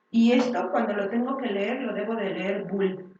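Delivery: "bull" said the English way, /bul/ with a clear b; bull pronunciation. Shown as a demonstration. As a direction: read "bull" as an English word. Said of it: "y dices".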